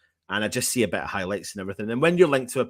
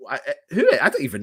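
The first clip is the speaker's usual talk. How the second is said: laughing; 4 semitones higher, 4 dB louder, faster than usual. Real, not acted. Amused by a viewer's comment.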